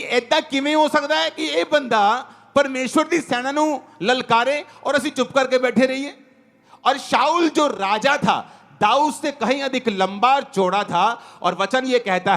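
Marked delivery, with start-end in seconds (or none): 0.0-6.2 mildly outraged retold question, pitched higher; higher-pitched, disbelieving challenge in Punjabi; indignant challenge. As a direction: imitate David's inner outcry. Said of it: "वो ललकार मार रहा था".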